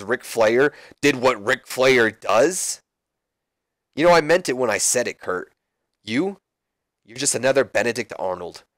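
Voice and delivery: lightly voiced heel mocking Kurt; Chris Jericho. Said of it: "he goes".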